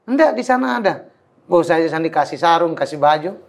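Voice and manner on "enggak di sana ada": pitched-up retold protest; mock high protest. A newcomer protesting that he is dirty, mock high voice. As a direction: squeak it out like a reluctant newcomer.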